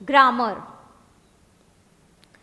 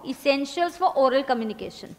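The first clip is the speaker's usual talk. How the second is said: drawn out heading for writing; slow dictation; slower than usual. Shown as a demonstration. Teacher dictating heading, slow. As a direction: say it slowly while they write. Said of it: "लिखो".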